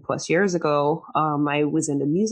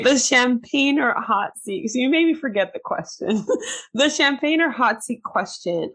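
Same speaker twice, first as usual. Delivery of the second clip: trying not to laugh; 7 semitones higher than usual. Real, not acted. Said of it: "Stop making me laugh".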